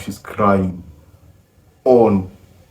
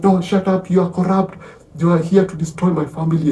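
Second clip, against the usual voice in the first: stern condemnation; 8 semitones higher than usual. Retold or imitated. Old man condemns pleading victim.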